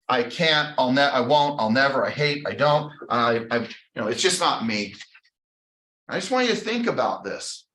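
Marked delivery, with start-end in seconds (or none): 0.1-4.9 defeated self-talk. Retold or imitated. Acting limiting self-talk against affirmations.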